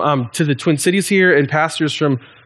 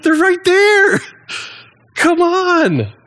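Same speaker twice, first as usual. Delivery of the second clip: much higher, laughing disbelief at the son; exasperated father; much slower than usual. Retold or imitated. Father laughs at the sulking son, friends right there. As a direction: play the father, half laughing, pointing at the obvious. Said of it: "And the father's like".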